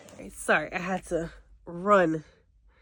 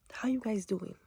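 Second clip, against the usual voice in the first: hushed whisper in a closet; whispering while hiding; 3 semitones higher, 6 dB quieter than usual. Real, not acted.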